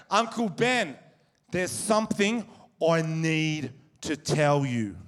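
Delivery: slow, spaced-out words with mock gravity; hint of a small child being very serious; lightly voiced young nephew. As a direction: solemnly announce a big secret, word by word. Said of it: "Harry comes up ... called the Whispering Game".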